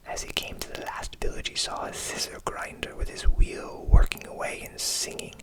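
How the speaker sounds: whispered storytelling. A narrator's reading.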